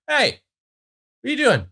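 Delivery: high-pitched call to the pet; high dog-talk voice. Real, not acted. Talking to her dog Aspen, high pet-talk voice.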